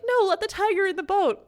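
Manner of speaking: high, loud mock plea; the reader begging for the tiger, loud and high. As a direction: beg loudly for the tiger. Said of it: "I was literally like".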